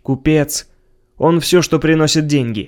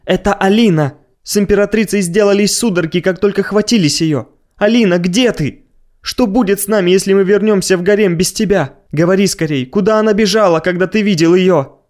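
frantic pleading; 5 semitones higher than usual. Acted.

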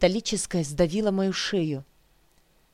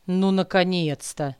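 offhand. Acted. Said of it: "небрежно бросил парень".

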